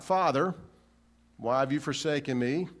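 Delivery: rising plea to Father; the wrong version. Shown as a demonstration. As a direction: lift it as the version he did not say.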